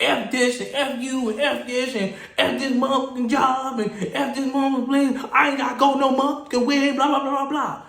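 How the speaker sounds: high, run-on mock cursing rant; snapping. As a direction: imitate someone going off, words tumbling out. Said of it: "black people get the snapping".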